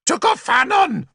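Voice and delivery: high ritual cry; high druid shout to the gods; druid's shout. A narrator's reading. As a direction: call out to the god at the sacrifice. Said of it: "he had shouted".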